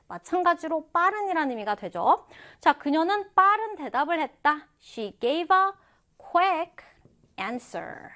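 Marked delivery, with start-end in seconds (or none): 4.8-8.1 word-by-word reading. Shown as a demonstration. Teacher first modelling an example for students, word-by-word reading. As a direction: break it up for learners, pausing between chunks. First take, broken into chunks.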